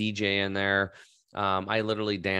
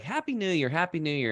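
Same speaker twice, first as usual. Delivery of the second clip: high, bright, heartfelt Happy New Year; genuine cheerful greeting; 7 semitones higher than usual. Retold or imitated. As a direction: greet back with real joy. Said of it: "they were really genuine".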